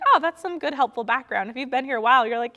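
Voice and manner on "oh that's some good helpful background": imagined listener. Retold or imitated.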